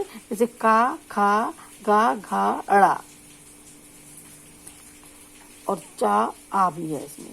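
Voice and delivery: का खा गा घा from the back of the throat, slow; slow velar drill; throat sounds demo. Shown as a demonstration. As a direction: model each throat syllable. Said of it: "के स्पर्श से होता है".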